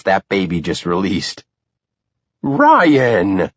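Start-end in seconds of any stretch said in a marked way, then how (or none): 2.4-3.5 higher mock-stern call of his name; a mother's warning; a hint of a stern mom; mild scolding. A narrator's reading. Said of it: "my mom scolds".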